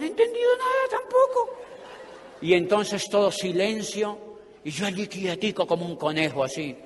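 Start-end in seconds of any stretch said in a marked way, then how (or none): 0.0-1.6 mucho más aguda, en falsete; falsete burlón. Retold or imitated. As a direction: remeda una vocecita perdida. Burla de sí mismo. (vocecita aguda de burla)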